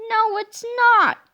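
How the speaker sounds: giggled. Acted. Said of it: "giggled Miss Labeler".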